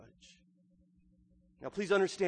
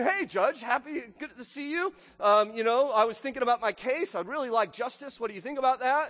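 put-on higher, chirpy pleading old lady; little old widow; 6 semitones higher than usual. Widow catching the judge at the market, higher chirpy plea. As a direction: cheerfully pester him about her case. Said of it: "His little old widow".

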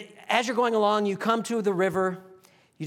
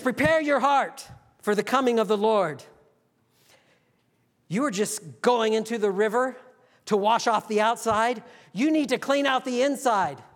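mild prophet yell; 4 semitones higher than usual. Acted. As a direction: preach it outward to a stranger on the far bank. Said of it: "he yells from across the river".

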